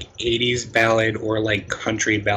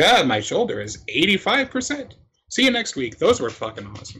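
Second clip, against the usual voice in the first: higher, upbeat wrestler promo voice; mock wrestler update; 8 semitones higher than usual. Friend mimics Randy Orton's injury update, higher and upbeat. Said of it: "break into Raw and be like".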